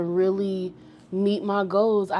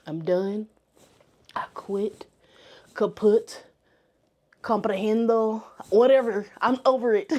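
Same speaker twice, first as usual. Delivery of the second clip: playfully over-the-top farewell; hammed-up exasperation. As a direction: throw it away like a diva quitting. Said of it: "That was, that was extra and cheesy".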